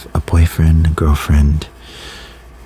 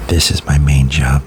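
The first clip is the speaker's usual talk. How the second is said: whispered pep talk; 2 semitones lower than usual. Real, not acted.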